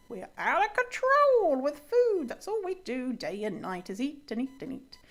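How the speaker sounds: mock-hysterical confession, leaping high then dropping; hammed-up sarcastic self-blame; sarcasm. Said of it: "that was all sarcasm".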